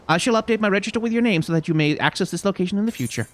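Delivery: a hint of a brisk stable keeper's patter; chocobo porter. Porter explains the service to a traveler, lightly voiced character.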